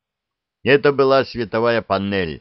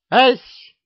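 very high, loud squawk of surprise; sudden high, loud shriek of surprise; startled yelp; 8 dB louder than usual. Acted. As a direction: jump out of your skin on one short word. Startled reply over the loud speaker.

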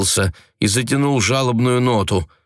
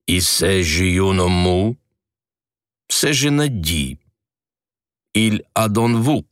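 French speech; slower than usual. A narrator's reading. Governess muttering in French, slow French voice. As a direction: speak French with a foreign lilt.

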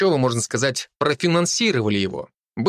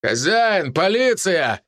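shouting police; 6 semitones higher, much slower than usual. A narrator's reading. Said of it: "кричали мужчины".

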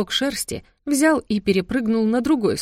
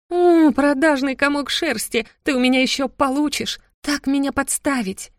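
indignant scolding; 7 semitones higher than usual. Acted. Heroine threatens the tattling cat, indignant. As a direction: scold the traitor cat, outraged.

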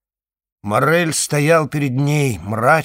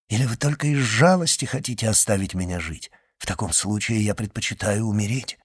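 Morrel, hurt; 2 semitones lower than usual. Acted. Morrel tells Valentine he would rather die, gentle reproach.

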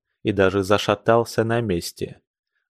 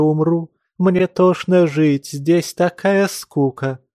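higher, slow and pained, near tears; a woman pleading in anguish, voice raised; anguished plea; 5 semitones higher than usual. Acted. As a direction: beg him, frightened and sick of life.

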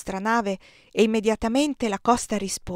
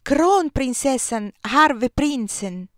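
high, loud, slow cheer; crowd's rhythmic shout; 5 semitones higher, 6 dB louder, much slower than usual. A narrator's reading. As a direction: call out a Swedish cheer in drawn-out beats. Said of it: "gridavano ritmicamente".

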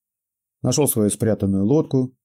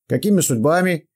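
put-on old prospector; 7 semitones higher, 4 dB louder than usual. Old man voiced in story.

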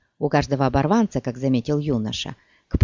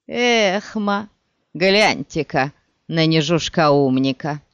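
mocking. Bandit mocks the farmer.

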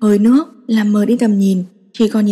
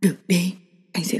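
hoarse; 4 semitones lower, 7 dB quieter than usual. A narrator's reading. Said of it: "giọng khàn khàn".

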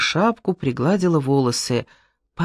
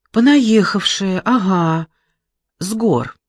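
ironic; 5 semitones higher, 4 dB louder than usual. Acted. Girl retorts with irony.

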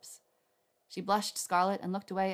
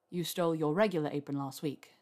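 smirking; 3 semitones lower than usual. A narrator's reading. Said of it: "he reminded her with a smirk".

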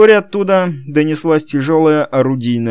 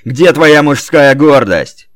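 громкий медленный рёв; заорать во всю глотку; 4 semitones higher, 8 dB louder than usual. A narrator's reading. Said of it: "заорал Кенни". (Кенни орёт на дворецкого встать)

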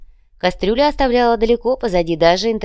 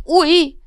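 much higher, loud pained yelp; sharp ouch; 12 semitones higher, 7 dB louder than usual. Acted. Manager hit by another stab, yelping loudly. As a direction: cry out as it stabs again.

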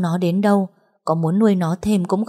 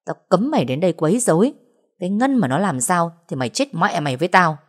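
furious cursing. Acted. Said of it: "Ngọc chửi".

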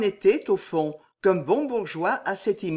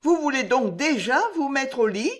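higher, quavering question; trembling voice; 7 semitones higher, 3 dB louder than usual. A narrator's reading. Maid Juliette asking her mistress, voice trembling. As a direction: ask it with barely hidden dread. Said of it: "d'une voix tremblante".

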